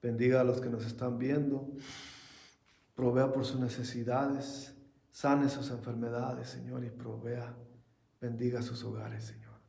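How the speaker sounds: prayer. Acted. Pastor leads closing prayer.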